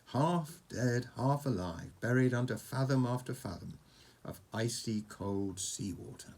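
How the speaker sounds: measured bedtime-story narration; story read to a child. A narrator's reading. Reading a dragon story to Oscar, storytelling. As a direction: tell it like an adventure tale, phrase by phrase.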